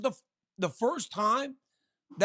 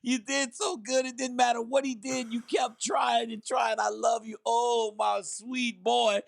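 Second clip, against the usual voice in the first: mother comforting her son. Retold or imitated.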